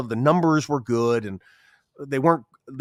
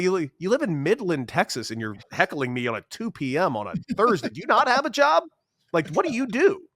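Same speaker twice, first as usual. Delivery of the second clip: mocking taunt; 6 semitones higher than usual. Teammate mocks heckler.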